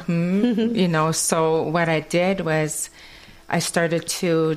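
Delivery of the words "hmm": Hmm hummed the Kwakwala way; a Kwakwala hum of reply. Shown as a demonstration. Teaching friends her Kwakwala hum, Hmm in a Kwakwala way.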